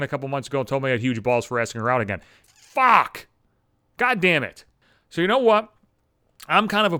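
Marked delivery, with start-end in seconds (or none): 2.4-4.6 sudden loud curse, high; exasperated yell; frustrated outburst. Real, not acted. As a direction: blurt it out in frustration.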